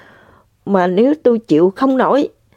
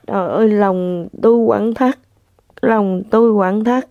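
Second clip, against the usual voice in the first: normal talking voice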